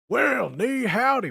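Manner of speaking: mock cowboy drawl with a Mandarin greeting; cowboy accent. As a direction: ham up a Southern cowboy saying well, ni howdy. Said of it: "has, like, a cowboy accent".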